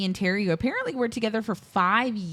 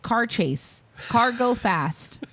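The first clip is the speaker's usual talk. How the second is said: slow, higher, punchy telegram-style delivery; mock simpleton note-reading; 4 semitones higher, 3 dB louder, slower than usual. Podcaster imagining her notes on a car chase film, mock simpleton. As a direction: announce each tiny note like a caveman.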